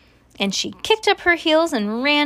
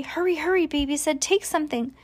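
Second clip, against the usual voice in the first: high, hushed-level urging; 7 semitones higher, faster than usual. A narrator's reading. Baby rushing Mercy to take a treat, urging. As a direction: hurry them along in a high voice.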